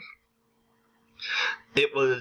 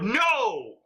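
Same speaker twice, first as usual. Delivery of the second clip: high, drawn-out mock outcry; hammed-up high-pitched protest; mock shout; 9 semitones higher than usual. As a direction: shout it in pretend outrage, pitched way up. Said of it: "and I shout".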